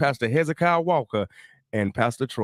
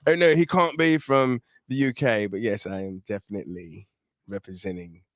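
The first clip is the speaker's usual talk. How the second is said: put-on London accent; 3 semitones lower than usual. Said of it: "if I talk like this".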